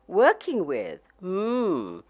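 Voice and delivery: mock-puzzled repeat of "Working with"; doubtful echo. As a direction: turn her words over as a strange idea. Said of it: "He paused as if milling over this strange idea".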